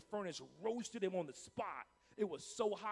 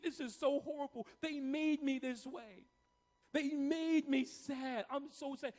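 high-pitched mock whining, words dragged out; whiny complaint; 6 semitones higher than usual. Preacher mimics believers blaming others for their feelings, whiny and high. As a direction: whine it like a wronged complainer. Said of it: "I hear many believers saying things like".

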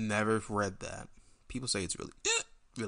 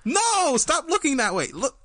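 alien overlord; 12 semitones higher, 6 dB louder than usual. Acted. Puppet demands attention.

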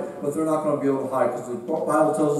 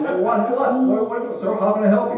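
higher, stammering mock surprise; flustered surprise; 5 semitones higher, 4 dB louder than usual. Preacher to man rushing the altar, flustered surprise. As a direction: stumble over the words as if caught off guard. Preacher startled by eager seeker.

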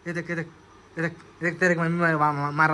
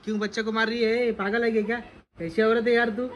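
tag; 4 semitones higher, 3 dB louder than usual. Pretend. Mock scolding woman for hitting child.

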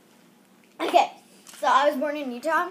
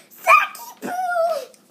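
high, very slow drawn-out wail; hammed-up scared call; mock scared call; 10 dB louder, much slower than usual. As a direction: stretch the name out in fake fear. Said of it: "He's like".

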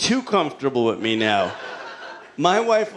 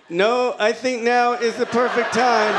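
mock pleading; 7 semitones higher than usual. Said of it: "I was like".

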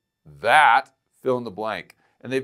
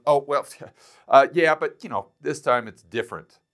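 mocking quote; 3 semitones higher, 3 dB louder than usual. Mocking what the critics always say.

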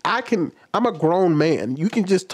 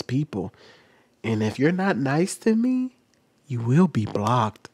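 TikToker voice; 3 semitones lower than usual. Retold or imitated. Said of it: "they talk like this".

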